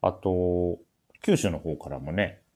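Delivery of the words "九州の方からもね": usual speaking voice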